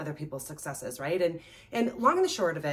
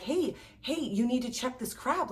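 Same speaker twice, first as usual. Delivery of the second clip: alerting someone; 5 semitones higher than usual. Retold or imitated. Layman alerts fisherman to escaping crab.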